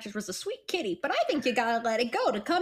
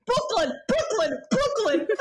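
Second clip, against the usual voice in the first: higher, laughing Brooklyn try; Brooklyn accent; 9 semitones higher than usual. Shown as a demonstration. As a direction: say Brooklyn, Brooklyn, Brooklyn like a New Yorker. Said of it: "Just say Brooklyn".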